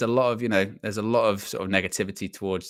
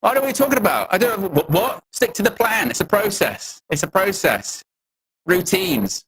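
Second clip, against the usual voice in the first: much higher, louder hammed-up manager rambling; mock manager impression; 10 semitones higher, 4 dB louder than usual. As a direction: parody a flustered manager spouting slogans.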